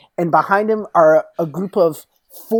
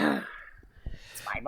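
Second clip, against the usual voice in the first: much lower, softer and very slow; menacing claim; 8 semitones lower, 13 dB quieter, much slower than usual. Acted. Moriarty telling the cop the bar is his, low and slow. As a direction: lay claim quietly, with menace.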